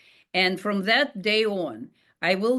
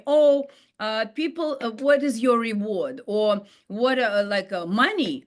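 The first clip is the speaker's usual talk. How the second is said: curious people; 3 semitones higher than usual. Retold or imitated. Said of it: "When people tell me".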